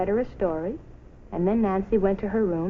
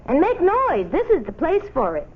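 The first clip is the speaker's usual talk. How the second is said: encouraging mother; 8 semitones higher, 4 dB louder than usual. A narrator's reading. Mother urging cheerfully.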